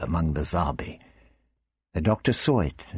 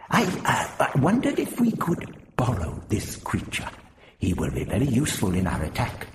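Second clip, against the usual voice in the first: Prapillus, tentative; 6 semitones higher than usual. Acted. Prapillus asks to borrow the captive Zarbi, tentatively. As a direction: make a careful, halting request in an old man's voice.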